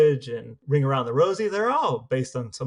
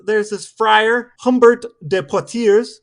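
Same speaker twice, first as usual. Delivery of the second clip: louder, slow relish of the name; dramatic storytelling; 5 semitones higher, 8 dB louder, slower than usual. Real, not acted. Host relishing the next grisly tale, slow and loud. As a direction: savor the friar's name.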